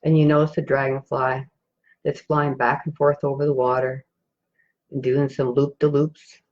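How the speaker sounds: calm meditation guide, long pauses between phrases; guided meditation. Acted. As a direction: gently guide listeners into a peaceful scene, unhurried.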